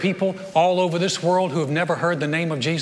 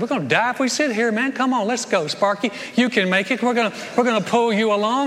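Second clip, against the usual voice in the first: higher, quick pep-talk voice; encouraging leper; 3 semitones higher than usual. Retold or imitated. Leper urging Sparky to keep walking, higher and quick. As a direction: urge your buddy Sparky on, fast.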